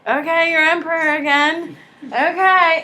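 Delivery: grudging, resigned acceptance; resigned giving in. Retold or imitated. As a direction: concede it with a shrug in the voice. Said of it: "And the French government's like".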